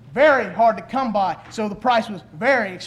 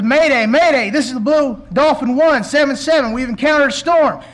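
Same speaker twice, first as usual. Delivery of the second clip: urgent distress call, louder; desperate call for help over the radio; mayday radio call; 3 semitones higher, 4 dB louder than usual. Acted. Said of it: "a desperate message".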